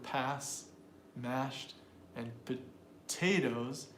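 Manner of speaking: "pass", "mashed", "potatoes" set apart; a pause before each of "mashed" and "potatoes"; stressed syllables. Shown as a demonstration. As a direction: stretch the TAY in "potatoes". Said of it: "if we're gonna stress the word".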